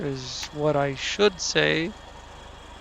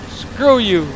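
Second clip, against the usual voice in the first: shouted high and loud in triumph; loud gloating shout; gleeful shout; 6 semitones higher, 8 dB louder than usual. Real, not acted. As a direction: yell it at the tree you're flattening. Repeat after listing the truck's power.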